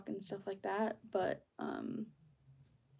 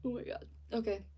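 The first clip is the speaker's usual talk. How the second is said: stifling a yawn; words through a yawn; 4 dB quieter, faster than usual. Real, not acted. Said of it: "Sorry, I'm yawning a lot".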